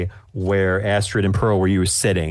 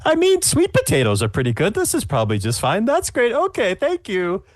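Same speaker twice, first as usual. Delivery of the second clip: high judge voice; 12 semitones higher than usual. Acted. Judge voice continues.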